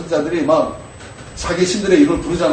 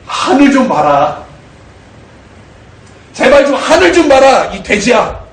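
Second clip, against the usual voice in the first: pleading God; 6 semitones higher, 6 dB louder, slower than usual. Retold or imitated. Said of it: "하나님께서 그러시는 거예요".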